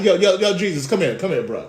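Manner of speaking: casual buddy voice calling a friend over; mock street-talk Peter; Peter pulling Jesus aside. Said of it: "Peter pulled him to the side".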